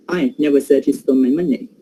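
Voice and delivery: I never said he stole my money, with the weight on "I"; stress on I. Shown as a demonstration. Teacher showing the class prominence, stress on "I". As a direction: lean on "I" so it sounds like someone else said it. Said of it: "the syllable I in the word I is giving prominence".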